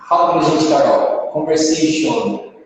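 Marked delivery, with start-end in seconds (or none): 1.3-2.5 "Conversation" drawn out, ending in full "shon"; wrong "on" ending. Shown as a demonstration. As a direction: keep a round O in the end of "Conversation". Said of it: "com on no final". ("Conversation" com "on" no final, bem devagar)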